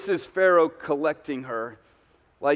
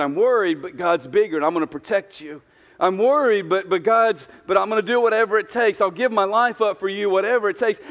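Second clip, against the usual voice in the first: protective husband; 3 semitones higher than usual. Retold or imitated. Voicing the ideal protective husband.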